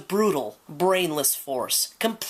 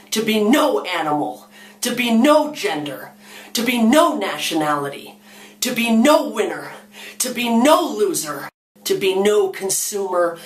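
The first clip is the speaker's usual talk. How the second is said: defiant demand. Acted. Animals demand the right not to exist.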